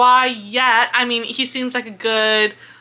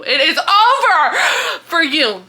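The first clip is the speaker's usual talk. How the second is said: laughing repeat; 6 semitones higher, 4 dB louder than usual. Real, not acted. Repeating threat, laughing loudly.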